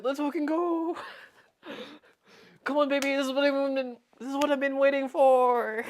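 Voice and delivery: hammed-up hype-man yell; Moist Critical. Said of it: "I'll mimic Moist Critical's voice".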